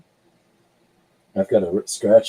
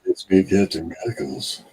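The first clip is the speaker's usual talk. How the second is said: mock stage voice. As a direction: lightly put on a cheesy stage persona. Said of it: "how to put on your stage voice".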